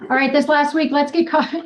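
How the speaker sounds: put-on a half-hearted Australian accent on the opener; mock Australian accent. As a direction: goof around in a badly faked Aussie accent. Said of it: "I think it was Australia".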